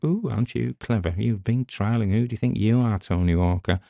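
lightly mocking put-down of a show-off; mocking himself. Host heckling himself over his own boast, mocking. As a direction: tease yourself for sounding self-important. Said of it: "this sounds like I'm".

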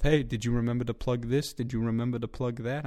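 imitating nagging colleagues in a New York accent. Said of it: "that's the accent I went with".

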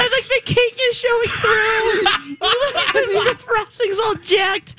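laughing while talking. Real, not acted. Laughing at melted cake.

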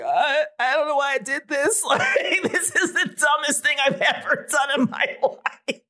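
high-pitched tearful wail broken by laughs; mock weeping. Woman retelling her meltdown to her brother, mock weeping. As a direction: imitate weeping while half laughing at yourself. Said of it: "I was just, like, weeping".

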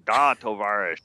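lightly mocked Russian comic-book hero; a hint of exaggerated Russian, imitating a catchphrase; Colossus. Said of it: "every other word out of Colossus' mouth was".

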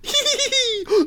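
high giggling titter; prim titter. Acted. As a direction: titter smugly behind the cards. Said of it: "as he titters from behind his cards".

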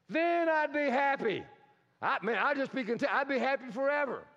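playful imitation of wishful thinking; mock elation. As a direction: act out a blissful daydream, lightly hammed up. Acting out wishful if-only thinking.

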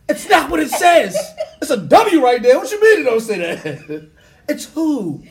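high, loud, laughing through words. Real, not acted. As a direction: laugh while you protest. Laughing rant about silent letter.

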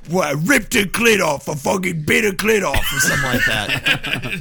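shouting through laughter; laughing. Real, not acted. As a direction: laugh it out loudly. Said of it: "In the English accent?".

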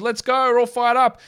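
high, loud fake excitement, sarcastic cheer; mock hype. Mock hype over a bench start.

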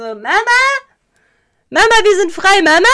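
loud mock child cry; imitating a little child. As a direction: ham up a childish shout for mama. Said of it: "wie er dann so".

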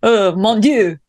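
mock French sigh; lightly accented despair. Co-host joins French bit.

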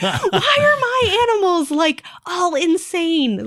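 very high, crying wail; half-laugh, half-cry the question. Retold or imitated. Pet owner wailing in tears about her sick animals.

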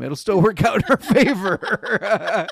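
laughing through the words; high, loud, laughing it out. Real, not acted. Laughing at own joke.

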